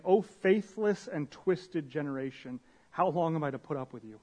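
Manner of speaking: lightly voiced exasperated Jesus scolding the crowd; stern rebuke. Pastor imagines Jesus scolding the faithless crowd, mildly stern. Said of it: "I don't know if that's how he said it".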